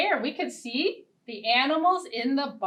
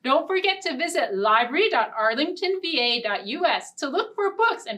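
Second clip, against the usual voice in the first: bright sign-off; 3 semitones higher than usual. Acted. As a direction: wave them off cheerfully. Cheerful storytime sign-off.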